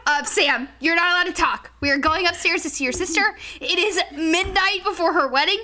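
exasperated, emphatic reprimand; retold scolding. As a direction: lay down the law to a drunk friend. Retold telling-off of drunk friend.

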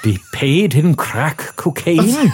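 laughing. Real, not acted. Laughs while reading.

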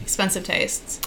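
whispered, breathy repeat; whispered aside. Real, not acted. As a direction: whisper it to yourself. Whispered echo of own boast.

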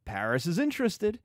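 mother telling Juliet of a suitor; mock mother, excited. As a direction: tease out the big news. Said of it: "is like".

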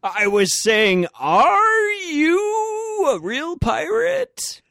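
very high, slow, squawking parrot. Pretend. Parrot first mate speaks.

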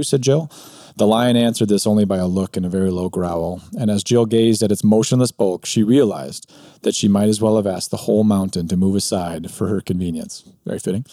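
reading a story aloud with lightly voiced characters. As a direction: read it like a bedtime tale for listeners. Reads Narnia passage aloud.

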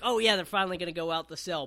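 quick, mildly excited rush; retold excitement. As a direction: rattle it off like an eager fan. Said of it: "I got so excited".

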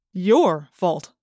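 suspicious question. A narrator's reading. Principal surprised.

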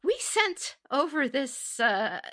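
high, indignant complaining voice; outraged scorpion letter. Retold or imitated. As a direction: complain to the boss, scandalized. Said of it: "a scorpion writing to his boss, saying".

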